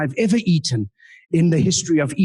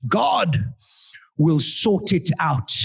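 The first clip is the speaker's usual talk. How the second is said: improvised Richard line; much slower than usual. Retold or imitated. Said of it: "all I could come up with was".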